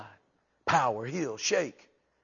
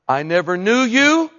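stern declaration; 7 semitones higher, 10 dB louder than usual. Acted. Quoting Christ at judgment.

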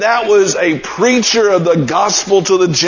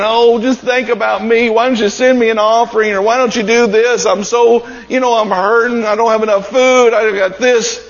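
mock whining; 3 semitones higher than usual. Preacher imagines Paul complaining to the church, mildly mock whining. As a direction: imitate someone feeling sorry for themselves. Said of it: "been whiny and, and saying".

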